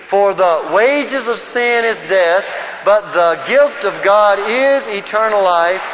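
slow, measured verse recitation; group recitation lead. Shown as a demonstration. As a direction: lead a room in reciting, word by word.

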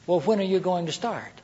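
soft, solemn, serious question. Shown as a demonstration. Leader to worker, a solemn threatening tone. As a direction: let the gravity carry a threat. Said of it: "Just have the solemn tone about it in the voice".

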